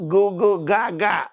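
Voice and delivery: lightly mimicked baby babbling; baby babble. Shown as a demonstration. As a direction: coo it like a baby's first sounds. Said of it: "Think about our first words".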